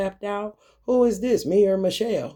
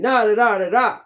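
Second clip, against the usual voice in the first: showing her real voice; 3 semitones higher, 5 dB louder than usual. Shown as a demonstration. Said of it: "It's more like this".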